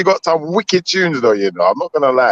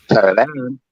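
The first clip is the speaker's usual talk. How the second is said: glitchy giggling ghost whisper; 3 semitones lower, slower than usual. Acted. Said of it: "Poltergeist voice".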